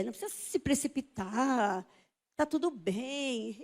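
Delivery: soft, drawn-out reassurance; calming doctor. Retold or imitated. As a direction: soothe a nervous patient gently. Doctor calming her, retold.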